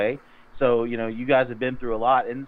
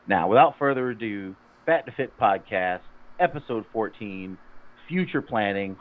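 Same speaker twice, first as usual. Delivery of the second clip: recited show disclaimer, even and practiced; podcast intro read; 3 semitones lower than usual. Acted. Host reading the fitness podcast disclaimer to listeners, practiced announcer delivery.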